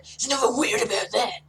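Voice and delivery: tough-guy gruffness, held steady; gruff. Shown as a demonstration. The speaker redoing the hairdresser line, gruff. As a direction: keep it gruff, no bro lilt. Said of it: "you gotta maintain the, the gruffness".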